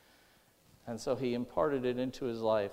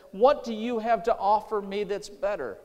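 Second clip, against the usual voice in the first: raised-pitch, pointed retelling of a challenge; retold challenge; 5 semitones higher, 3 dB louder than usual. Young student answers the professor's demand, firm retold challenge. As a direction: put the question to him firmly, higher.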